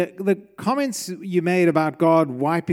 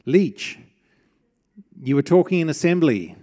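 louder, a hint of a stern principal scolding; 4 dB louder than usual. Principal scolds the boy for talking in assembly, mildly stern. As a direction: call the boy out by his surname. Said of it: "more along the lines of".

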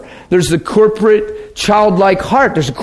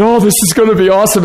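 excited; 4 semitones higher, much faster than usual. Retold or imitated. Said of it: "And I giggled".

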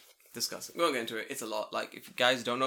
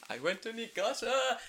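excited announcement; 9 semitones higher than usual. Real, not acted. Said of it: "you're saying".

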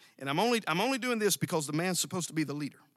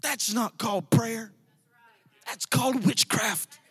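emphatic denunciation; 3 semitones higher than usual. Real, not acted. Preacher denounces witchcraft prayer.

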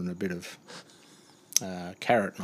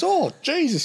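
disgusted squeal; 6 dB louder than usual. Retold or imitated. Driver disgusted.

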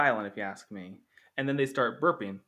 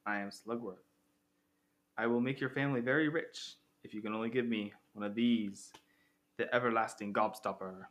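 sinister stranger; 2 semitones lower, 4 dB quieter than usual. Retold or imitated. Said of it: "He's like".

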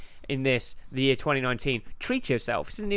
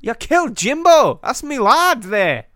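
high, loud West Country outrage; Scottish accent slipping into West Country; mock-aggrieved West Country yokel; wandering West Country accent; 8 semitones higher, 8 dB louder, slower than usual. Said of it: "It's getting quite West Country".

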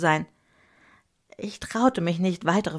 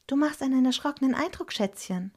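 worried mother; 8 semitones higher than usual. A narrator's reading. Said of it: "fragte meine Mutter besorgt".

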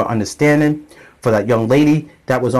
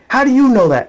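high, loud incredulous question; mom's challenge; 11 semitones higher, 3 dB louder than usual. Retold or imitated. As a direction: doubt him sharply. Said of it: "she's like".

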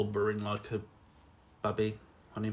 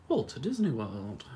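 slow, swooping "Walt Disney World"; oddly drawn-out name; 2 semitones higher, slower than usual. Real, not acted. Co-host naming the park, accidentally drawn-out. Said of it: "I don't know why I said it like that".

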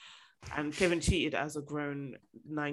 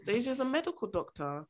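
light Nigerian accent on medical doctor; a touch of Nigerian lilt; 5 semitones higher, 4 dB quieter than usual. Real, not acted. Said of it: "I sounded so Nigerian when I said".

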